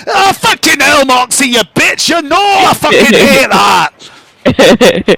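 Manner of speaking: high, irate creature voice, drawn out at the end; sweary shouted outburst from a tiny creature; furious little mushroom creature. Acted. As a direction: protest loudly at being tickled. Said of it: "you can hear his voice going".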